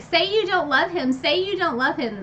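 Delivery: a hint of the Bitch Queen yelling at Farah; mock screaming demand. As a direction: demand it of her like a cruel queen. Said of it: "the Bitch Queen screaming at her".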